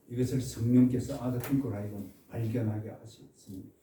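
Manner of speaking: ordinary talk, nothing marked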